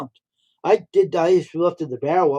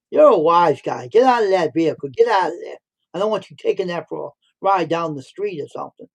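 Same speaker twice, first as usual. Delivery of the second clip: imitating the worker ordering him off the vehicle; mock furious scolding; frantic yelling; 3 semitones higher, 4 dB louder than usual. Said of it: "He would get frantically nuts".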